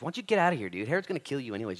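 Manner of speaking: mock urgent dismissal; Pharisees' warning. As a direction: voice a pushy warning, easing down. Voicing Pharisees warning Jesus.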